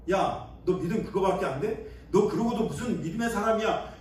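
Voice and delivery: hint of a reproving master; scolding God voice. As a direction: mildly scold a weak believer. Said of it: "이렇게 책망할 만도 한데".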